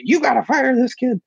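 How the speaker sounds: high squawking radio voice; squawking teacher. Retold or imitated. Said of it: "she's squawking".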